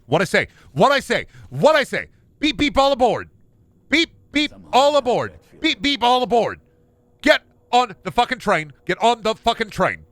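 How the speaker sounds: high, loud furious conductor yell; exasperated conductor screaming all aboard; angry conductor. Pretend. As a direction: bellow at stubborn passengers like a mad conductor. Conductor yelling at passengers.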